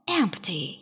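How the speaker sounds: low, soft disappointed sigh; a mild letdown sigh. A narrator's reading. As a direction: let the word sag out. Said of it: "he signed".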